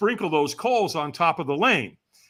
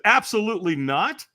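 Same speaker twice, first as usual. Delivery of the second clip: higher-pitched, firm refusal; retold flat-out no, pitched up; emphatic refusal; 5 semitones higher, 4 dB louder than usual. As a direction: shut the offer down outright. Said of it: "and I said it with that tonality".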